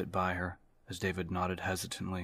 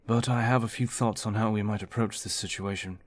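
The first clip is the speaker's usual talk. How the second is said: raised, louder commanding briefing voice; a steady officer taking charge, projecting to the room; David, firm team leader; 3 semitones higher, 7 dB louder than usual. Acted. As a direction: lay out the plan like a confident commander.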